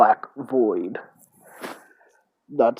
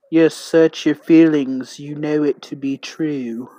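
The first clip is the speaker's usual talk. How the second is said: mystic guide voice; 3 semitones higher, 5 dB louder than usual. Acted.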